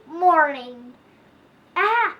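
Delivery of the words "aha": pleased aha. Acted. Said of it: "I thought when I came up".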